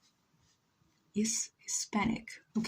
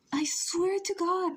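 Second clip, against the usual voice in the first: whispered oath; 9 semitones higher than usual. Acted. Exasperated repeat.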